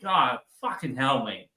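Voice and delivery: slow Australian "God, fucking hell, mate"; Aussie fucking hell. Shown as a demonstration. Dead giveaway Aussie swear for Americans, slow Australian accent. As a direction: drag it out like an Aussie. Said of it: "Aussie is straight".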